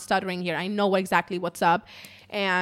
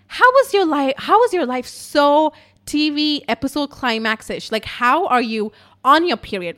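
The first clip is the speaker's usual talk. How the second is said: raised, emphatic retold disbelief; incredulous friend; 5 semitones higher, 4 dB louder than usual. Friend reacting to the wild story, acted incredulity. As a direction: imitate a friend floored by the story. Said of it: "she was literally on the floor".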